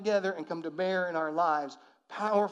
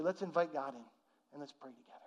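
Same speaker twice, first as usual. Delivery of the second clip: soft invitation to pray; 4 semitones lower, 7 dB quieter, faster than usual. Shown as a demonstration. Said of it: "grab their hands and say".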